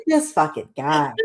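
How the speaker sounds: low, slow, exasperated aside; mock weary disbelief at someone's arrival; fed-up reaction. Voicing the wrestler glaring at her husband, wearily fed up. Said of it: "Look at E C three looking at Vito".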